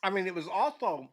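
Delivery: talking around ice; words round a mouthful of ice. Real, not acted. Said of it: "I got ice in my mouth".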